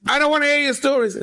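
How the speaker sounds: put-on high, irritated Russian accent. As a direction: wave him off in a Russian accent. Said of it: "heavy Russian accent".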